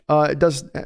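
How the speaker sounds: talking through a burp; words broken by a burp. Real, not acted. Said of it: "like, burping here".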